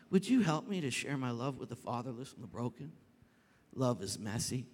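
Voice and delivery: sudden drop to a low, measured voice; calm reply. Retold or imitated. God interrupting pastor's rant with a request, calm. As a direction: ask soberly after the tirade.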